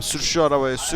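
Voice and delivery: shouting at driver. Acted. Driver refuses, demands he drive.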